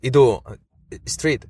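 mock exchange with an English local; confused English speaker. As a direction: act out not understanding then getting it. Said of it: "Hay algunos que te dirán".

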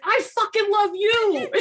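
high hammed-up gushing reply; mock lover. Retelling the heroine's reply, high mock swooning. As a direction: swoon it back, over the top. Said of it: "And she's like".

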